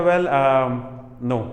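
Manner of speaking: imitating an unsure student's answer; hesitant student. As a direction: stall on a drawn-out filler before answering. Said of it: "बच्चा बोलता है".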